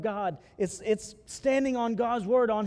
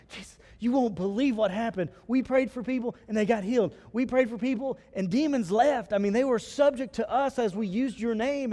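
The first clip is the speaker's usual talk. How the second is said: excited. Retold or imitated. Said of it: "they were exci-, ex-, excited".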